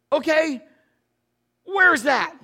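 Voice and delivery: loud, high, bewildered question; eager but lost, asking loudly; clueless player. Retold or imitated. Son asks coach where the position is, bewildered.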